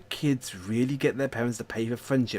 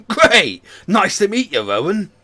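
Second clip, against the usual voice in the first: loud, high, hammed-up surfer greeting; surfer dude; 8 semitones higher, 11 dB louder than usual. Man meets the kid Rowan, excited surfer dude. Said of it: "give him a radical surfer dude voiced".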